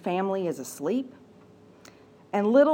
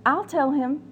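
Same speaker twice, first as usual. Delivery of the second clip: small voice; 5 semitones higher than usual. Acted. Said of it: "said a small voice".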